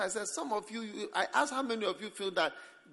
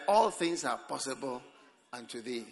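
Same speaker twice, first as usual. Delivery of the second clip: lower, softer, humble request; polite prayer; 6 semitones lower, 4 dB quieter than usual. Retold or imitated. Jesus praying politely to the Father. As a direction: ask gently and respectfully. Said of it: "Jesus' own was very polite".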